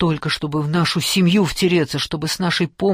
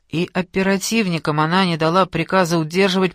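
ordinary delivery

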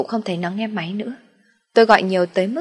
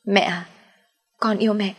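soft smile; 3 semitones higher than usual. A narrator's reading. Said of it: "Nó khẽ mỉm cười rồi nói".

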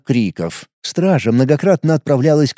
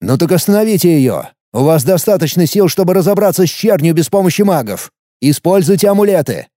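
irritated; 3 semitones higher than usual. Acted. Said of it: "ответил раздражённый начальник стражи".

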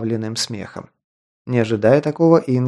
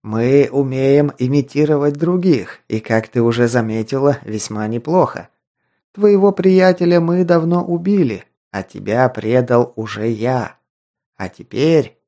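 rasping strained mutant. Acted. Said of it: "хрипел тот".

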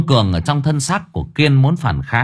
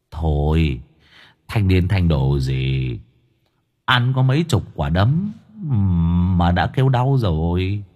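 persistent needling; 5 semitones lower than usual. Acted. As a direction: shrug off his pain. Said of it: "Ông Cường vẫn kiên trì". (giọng trầm châm chọc)

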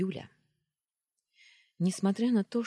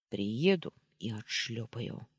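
purring; 3 semitones lower, slower than usual. Acted. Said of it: "проурчал Даня".

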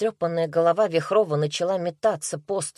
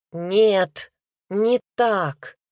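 firm pressed «Нет, не так», a touch louder; with emphasis; 3 semitones higher, 4 dB louder, much slower than usual. A narrator's reading. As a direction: push back firmly on «не так». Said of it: "вдруг с нажимом возразил Андрей".

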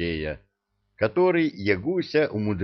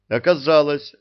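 usual speaking voice

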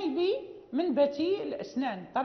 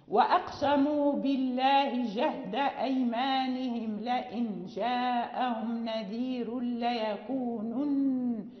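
slow recited verse; Quran recitation; slower than usual. Shown as a demonstration. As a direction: recite the verse slowly, sounding both nuns. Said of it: "لا بد من الانتباه إلى كلا النونين".

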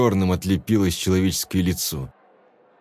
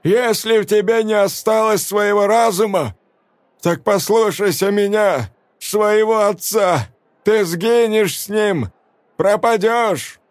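put-on slow, high pleading shout of an old man; father warning his daughter; 11 semitones higher than usual. A narrator's reading. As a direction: warn your daughter with everything you have. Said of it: "старческий голос".

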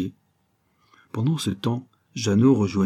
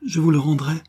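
fervent vow, starting high, sinking at the end; loving; 7 semitones higher than usual. A narrator's reading. Jacques vows to bring back Jacqueline's father, lovingly fervent. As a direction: console her with mildly impassioned devotion. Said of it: "d'une voix où se révélait l'amour".

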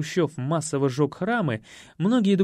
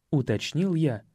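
plain reading voice

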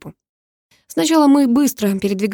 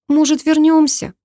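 higher, pleading tired moan; whiny moan; 8 semitones higher, 4 dB louder than usual. A narrator's reading. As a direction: beg to turn back in a weary whine. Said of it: "простонала Карина".

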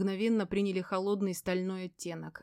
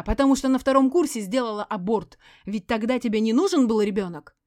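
loud, higher, bitter yelling; bitter screaming; 3 semitones higher, 10 dB louder than usual. A narrator's reading. Barren ex-wife blames Sergey, bitter loud screaming. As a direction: scream out the old grievance.

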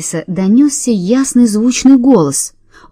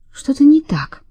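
unvoiced, higher whisper; a hushed whisper of unease; 7 semitones higher than usual. A narrator's reading. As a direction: breathe it out, uneasy. Narrator's uneasy inner thought.

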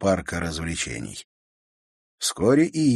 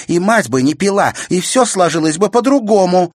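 higher, louder bitter tirade; furious rant; 10 semitones higher, 8 dB louder than usual. A narrator's reading. Sister raging at brother about the magician. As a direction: pour out her grievance.

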